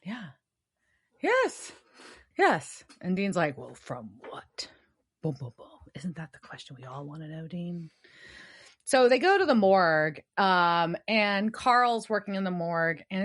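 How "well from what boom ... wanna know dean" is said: hushed, breathy near-whisper, much softer; whispering Dean. Retold or imitated. Podcaster imitating Dean asking Sam, whispered. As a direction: murmur the questions under your breath.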